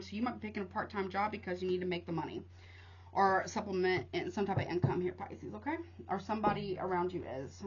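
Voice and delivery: breathless, puffing between words; talking while winded; out of breath. Real, not acted. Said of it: "Whew, I'm out of breath".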